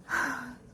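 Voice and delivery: long worn-out breath out; tired sigh. Real, not acted. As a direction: let out a drained sigh. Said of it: "sobrang pagod".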